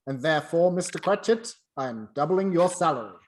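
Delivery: loud, building to the good news; spring the surprise on Cratchit; triumphant reveal. Acted. Scrooge reveals the raise.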